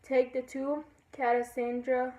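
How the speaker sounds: storytelling verse in a lilting rhythm; lightly singsong poem reading; poem recital. Acted. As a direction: read the rhyme aloud, easing off at line ends. Reads a poem aloud.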